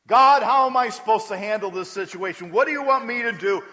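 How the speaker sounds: loud, pleading prayer to God; praying aloud. Acted. Preacher voicing a believer's loud, pleading prayer. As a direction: cry out to God for guidance. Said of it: "and ask".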